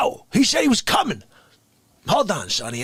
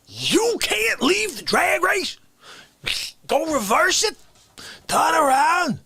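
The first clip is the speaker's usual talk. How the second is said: incredulous rant; 7 semitones higher than usual. Acted. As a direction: yell at him like he's lost his mind. Incredulous ranting at the listener.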